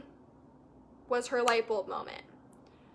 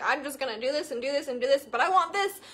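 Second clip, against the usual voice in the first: mock whine; 5 semitones higher, 3 dB louder than usual. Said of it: "we're like".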